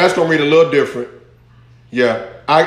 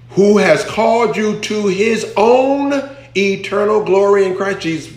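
raised, drawn-out preacher's reading; proclaimed scripture; 5 semitones higher, slower than usual. Real, not acted. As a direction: proclaim the verse slowly and high. Proclaims Amplified verse.

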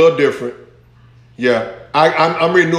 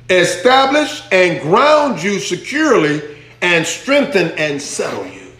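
slow preacher's reading, starting high and settling down; proclaimed scripture; 3 semitones higher, slower than usual. Real, not acted. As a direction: proclaim each promise deliberately. Proclaims Amplified verse.

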